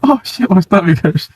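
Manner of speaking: high, weak words through real laughter; laughing helplessly. Real, not acted. Streamer with stomach aching from laughter, helpless giggling. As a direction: gasp it out, worn out from laughing.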